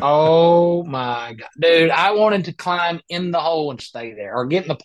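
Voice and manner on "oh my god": mortified groan. Retold or imitated. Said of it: "I'm just like".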